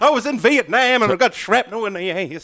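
hammed-up outrage, as if wounded; indignant smuggler. Smuggler protesting to airport staff, mock indignant and loud. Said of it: "He could turn around".

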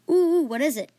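put-on high, loud childlike eagerness; excited. Boy hears of a special task from king, excited. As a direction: burst out like an eager little kid. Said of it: "I said excitedly".

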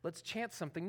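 a healer dimming the lights, mock hushed; mock mood-setting. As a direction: play at setting a soothing mood. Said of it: "like, set the mood".

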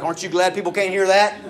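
hammed-up angry thinking; angry inner voice. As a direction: hammer out the furious reply in your head. Preacher acting his angry inner voice.

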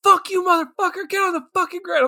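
high, fast squeaky threat; squeaky mock kid gangster; mocking kid mobster. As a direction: parrot the kid's tough talk. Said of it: "they're like".

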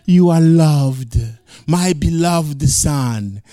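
slow, solemn, lightly voiced fatherly God. Preacher voicing God blessing his son, slow and solemn. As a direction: bless the son slowly and tenderly.

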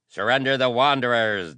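high, loud cry of angry nobles; shouted demand. A narrator's reading. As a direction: shout it out as an ultimatum. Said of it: "they shouted".

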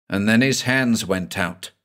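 usual speaking voice

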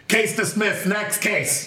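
brisk gavel-banging judge; judge's ruling. Retold or imitated. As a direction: rule on the case and move on. Judge voiced in the story.

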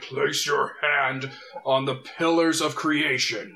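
slow, booming god voice from within. Acted. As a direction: boom it out like the city itself speaks. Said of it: "you hear a booming voice".

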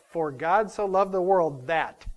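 that held at the end, slow reading; stress on that. Shown as a demonstration. Preacher points the congregation to the that. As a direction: lean on the final that, slowly. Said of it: "The that, what comes after the that".

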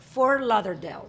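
"Fort Lauderdale" with the T of Fort dropped; learner's Spanish-accented "Fort Lauderdale", T swallowed; corrected pronunciation. Shown as a demonstration.

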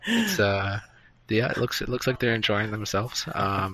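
muffled behind a hand; covered mouth, hushed report; hand over mouth. Real, not acted. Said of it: "uncover your mouth".

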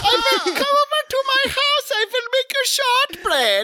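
very high, hammed-up German Santa; bad German Santa. Santa impersonator promising shortbread, high mock German. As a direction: squeak out a botched Santa invitation. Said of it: "German Santa Claus impersonator".

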